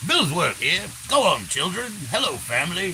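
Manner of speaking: lightly voiced pompous character; a hint of a pompous dimwit; Stu Levine Billsworth voice. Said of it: "the other one was Stu Levine Billsworth".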